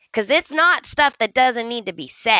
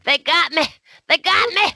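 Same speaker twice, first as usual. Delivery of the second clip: mock wounded; 7 semitones higher, faster than usual. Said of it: "I have feelings".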